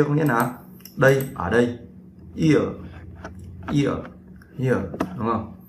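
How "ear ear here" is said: "Ear, ear, here" lướt nhanh từ i sang ơ; "here" đọc h rồi i sang ơ, nuốt liền; gliding diphthong demo. Shown as a demonstration. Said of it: "nuốt nhanh vào nhau". (mẫu phát âm "ear", "here" với nguyên âm đôi lướt nhanh)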